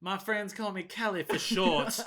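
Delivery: mock Texas twang, amused; playful Southern twang impression. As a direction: imitate a Southern accent, lightly. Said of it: "She's got a twang to her".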